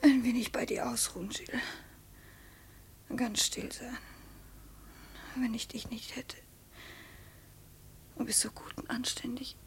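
tonlos und leise, ausgelaugt; erschöpftes Flüstern. Acted. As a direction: hauch es nur, völlig am Ende. Colette erschöpft an Gilles gelehnt. (Colette flüstert erschöpft bei Gilles, tonlos)

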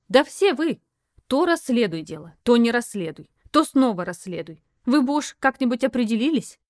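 exasperated outburst. Acted. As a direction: throw it at him, sick of their games.

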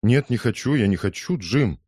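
ordinary delivery

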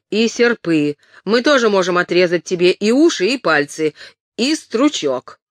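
thin and sharp, loud like a horse's neigh. Acted. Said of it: "его голос прозвучал тонко и резко, как ржание лошади".

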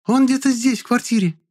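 very high shrieked insistence; girl shrieking at the search party. A narrator's reading. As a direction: squeal it out. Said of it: "взвизгнула Шарлотта".

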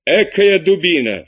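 teacher yells at a lazy pupil; exasperated outcry. Acted. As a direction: spit out the insult slowly. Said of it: "вскричал аббат".

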